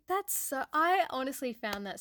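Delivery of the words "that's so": mock disbelief. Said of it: "And I was like".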